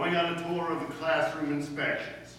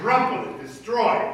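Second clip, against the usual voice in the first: high, loud, worked-up commands; loud ranting orders; 7 semitones higher, 8 dB louder than usual. Acted. Principal rants orders at Miss Brooks, high and loud. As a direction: drive each order home, louder.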